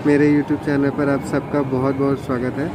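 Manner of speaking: muffled voice behind a mask; through a face mask. Real, not acted. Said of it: "मैं mask लगा के रखा हूँ और आवाज़ थोड़ी सी धीरे आ सकती है".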